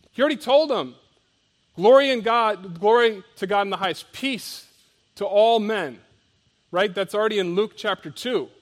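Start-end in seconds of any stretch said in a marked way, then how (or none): 1.8-6.0 louder, exultant praise like heralding angels; joyful proclamation. Acted. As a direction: proclaim it as heavenly good news, full voice. Angels' declaration, quoted joyfully.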